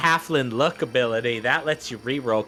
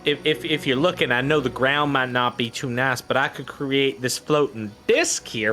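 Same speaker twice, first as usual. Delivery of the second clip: folksy halfling voice. Acted. Halfling NPC speaking.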